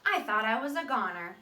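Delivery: a hint of the seed retelling his past; lightly voiced seed. Teacher reading the seed's sad past to the class. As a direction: tell it as the seed, half remembering.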